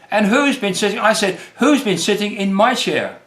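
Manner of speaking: lightly voiced wondering Mama Bear. A narrator's reading. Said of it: "wondered Mama Bear".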